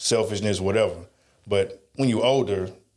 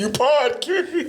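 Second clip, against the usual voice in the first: laughing tease; slower than usual. Real, not acted. Friend teasing through laughter.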